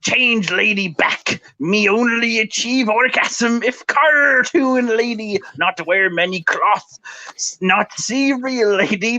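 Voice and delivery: hammed-up dim caveman voice, broken English; different voice. Reading a commenter's post to stream viewers, mock caveman voice. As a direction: read the comment as a grunting, clueless troll. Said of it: "I need to do this in a different voice".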